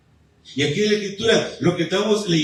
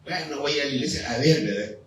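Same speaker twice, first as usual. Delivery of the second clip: mildly dejected, softer mock churchgoer; low-spirited; 4 semitones lower, 4 dB quieter than usual. Preacher imitating someone coming to church without spirit, low-spirited. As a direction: act out a reluctant, half-hearted resignation. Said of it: "¿Con ánimo así?".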